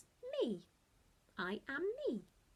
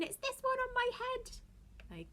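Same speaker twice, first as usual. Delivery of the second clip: playful whisper; slower than usual. Shown as a demonstration.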